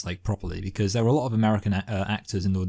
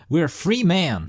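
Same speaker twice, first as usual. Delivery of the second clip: higher, louder mock hero line; mock heroic speech; 8 semitones higher, 3 dB louder than usual. Recalling the speech to his co-host, mock heroic. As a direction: ham up the rebel's rallying cry. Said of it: "It's something about being like".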